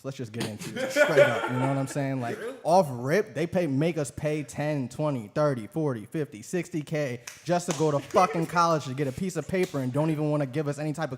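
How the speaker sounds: talking with a lisp from Invisalign. Real, not acted. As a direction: lisp through new aligners. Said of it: "so I'm sorry about the lisp".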